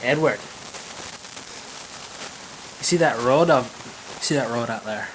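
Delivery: put-on tipsy Irishman telling a joke, Irish accent; lightly put-on Irish brogue. Drunk William turns to Edward in the pub, Irish accent. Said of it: "That's a good accent".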